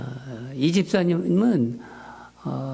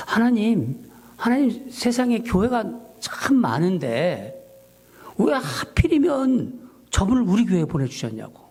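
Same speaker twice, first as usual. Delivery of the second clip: higher, pleading complaint to God; reenacted complaining prayer, raised pitch; arguing with God; 4 semitones higher than usual. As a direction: protest to God like a frustrated son. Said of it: "하나님한테 제가 이렇게 따지는 거예요".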